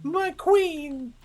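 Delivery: exaggerated Cockney commoner voice; Cockney accent. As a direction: put on a thick Cockney accent. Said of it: "I don't sound like that".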